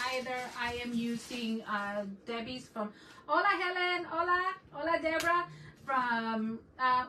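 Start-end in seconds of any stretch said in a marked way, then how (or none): 3.3-5.5 higher, louder, bubbly hellos to each viewer; excited shouty greetings. Real, not acted. Greeting viewers who just joined her stream, excited loud hellos. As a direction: call out to new friends, loud and happy. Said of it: "again, I'm sorry if I'm shouting".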